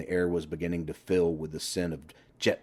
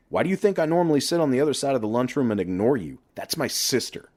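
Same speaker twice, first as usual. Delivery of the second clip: higher, louder start, then fast grumbling; annoyed brother; 4 semitones higher, 4 dB louder than usual. Acted. Johnny refuses to hear about his sister, annoyed. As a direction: wave off the details as the older brother. Johnny warns off sex talk.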